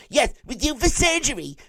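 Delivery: put-on high pleading voice of the worried girlfriend; frantic girlfriend. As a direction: squeal it like a panicked girlfriend pleading with insurance. Girlfriend on the phone.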